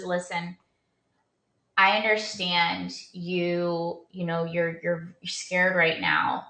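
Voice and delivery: slow, soft reassurance; calm doctor. Retold or imitated. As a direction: soothe her like a calm doctor. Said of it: "he's super calm".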